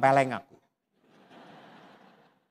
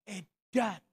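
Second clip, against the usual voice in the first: awed murmur; 7 semitones higher, 7 dB quieter than usual. Real, not acted. Reaksi kagum.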